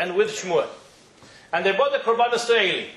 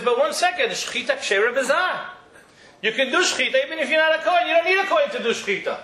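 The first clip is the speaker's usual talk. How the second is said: put-on mild young voice; 5 semitones higher, faster than usual. Shmuel voiced arguing with Eli.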